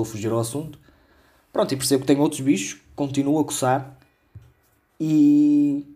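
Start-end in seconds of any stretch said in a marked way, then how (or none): 5.0-5.8 held-back burp; swallowed burp. Real, not acted. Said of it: "acho que vou ter que dar um arroto".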